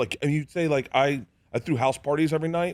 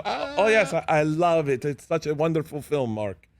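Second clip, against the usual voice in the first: lightly voiced gushing co-star, pitched up at first; imitated bluffing co-star; 3 semitones higher than usual. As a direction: put on a fake fan's enthusiasm, easing down at the end. Co-star bluffing she loves it.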